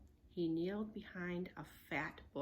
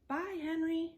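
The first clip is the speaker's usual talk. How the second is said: put-on girl voice; 9 semitones higher, 6 dB louder than usual. Annie voiced, cheerful goodbye.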